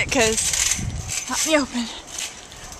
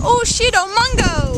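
sudden higher startled curse; 6 semitones higher than usual. Real, not acted. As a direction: caught off guard. Sudden alarm.

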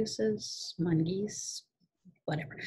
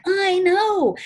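much higher, louder wailing reply; hammed-up childish shriek; 13 semitones higher, 9 dB louder than usual. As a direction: wail back in despair. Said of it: "And I'm like".

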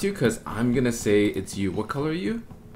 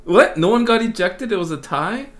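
surprised; 10 semitones higher, 7 dB louder than usual. Real, not acted. Shocked at vote result.

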